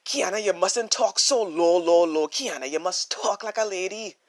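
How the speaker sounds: a hint of a scolding grandmother; lightly voiced grandmother. Grandmother scolds young Kiana at the kitchen table, mild imitation. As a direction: gently imitate grandma's correction. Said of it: "my grandmother saying to me".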